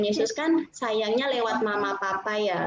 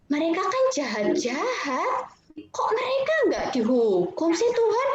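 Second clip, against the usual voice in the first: mildly indignant, rising in pitch toward the end; indignant complaint; 2 semitones higher than usual. Acted. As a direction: act out a baffled protest to God. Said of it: "Yunusnya marah". (protes kesal)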